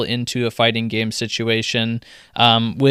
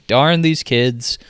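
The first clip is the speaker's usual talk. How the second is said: mock grumbling old man, drawn-out words; slow, half-hearted old-timer complaining about kids; grumpy old man; slower than usual. Host imagining himself griping about iPad kids, lightly voiced old grump. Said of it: "gonna do the exact same thing".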